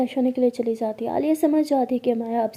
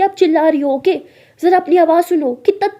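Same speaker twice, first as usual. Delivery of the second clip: loud, raised-pitch scolding; heated accusation; 4 semitones higher, 8 dB louder than usual. Acted. Alia tells her partner to hear herself, loudly scolding. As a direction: throw the accusation back at full voice.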